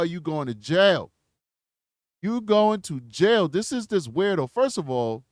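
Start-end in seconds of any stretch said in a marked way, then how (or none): 0.0-1.1 taunting. Real, not acted. Gloating at arrested man. 2.2-3.5 taunting. Real, not acted. Repeats taunt higher.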